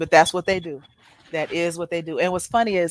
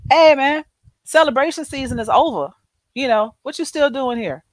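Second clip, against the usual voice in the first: annoyed hosts; 6 semitones higher than usual. Retold or imitated. Islanders telling Cook he overstayed.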